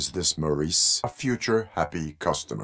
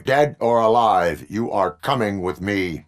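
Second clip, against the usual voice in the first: commanding shout; 3 semitones higher, 4 dB louder than usual. Acted. RoboCop calls out to suspect.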